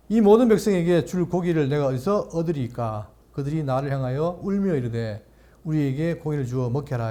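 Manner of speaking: measured, solemn Bible reading; scripture reading. Acted. Pastor reading Numbers to the congregation, solemn reading.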